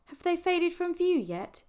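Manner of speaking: faint, slow, muffled voice; weak and muffled. A narrator's reading. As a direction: speak weakly into your knees. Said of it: "voice was weak and muffled".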